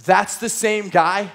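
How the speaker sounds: slow, awed that's the same guy; dawning realization. Retold or imitated. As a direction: let it sink in as you say it. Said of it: "moment of realization".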